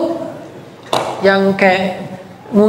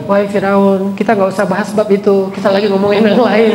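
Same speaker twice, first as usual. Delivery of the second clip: gentle Moses; 3 semitones lower than usual. Acted. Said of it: "Musa jadi lembut ngomongnya".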